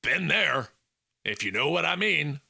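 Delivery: lightly voiced Southern buddy, knowing; Felix. A narrator's reading. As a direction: commiserate like one who knows. Felix voice continues.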